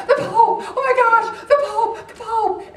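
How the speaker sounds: high, loud squeals of delight with laughter; excited freak-out. Retold or imitated. Young American tourist seeing the Pope, high and loud. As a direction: gush like a starstruck fan seeing the Pope. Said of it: "I was freaking out".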